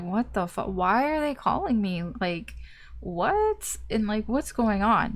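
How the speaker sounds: mock groggy panic at a midnight call; confused, startled. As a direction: woken by a late call, a mild startled what. Woken by a call at night.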